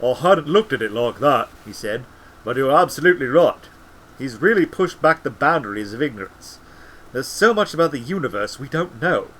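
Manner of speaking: a lightly voiced second wizard; a touch of a different wizard, pleased and thoughtful; Cut Angle's voice. A narrator's reading. Wizard agreeing with his colleague, lightly voiced. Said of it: "I'll speak in Cut Angle's voice with Treadle".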